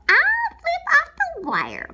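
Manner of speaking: high, loud, slow showman voice; grand boast. Acted. Alex lying about his trapeze act, high slow showy boast. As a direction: proclaim it like a ringmaster.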